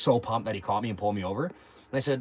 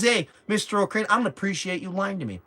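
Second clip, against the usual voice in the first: mock stern cop; 9 semitones higher, 5 dB louder than usual. Cop scolding him.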